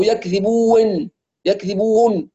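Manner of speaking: يكذبون ending bu-win, then bu-wun; wrong waw glide. Retold or imitated. Teacher lists reading errors, added waw glide. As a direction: break the long u of يكذبون with a glide. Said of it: "كل هذه أخطاء".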